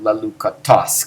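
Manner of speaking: "lelukatos" with the weight on TOS; stress on ending. Shown as a demonstration. Teacher showing genitives are different, stressed ending. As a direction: hit the last syllable, "lelukaTOS". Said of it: "emphasize that ending instead".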